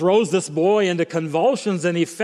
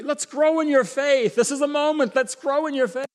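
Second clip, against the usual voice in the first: inviting; 9 semitones higher than usual. Pretend. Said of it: "it's an invitation to".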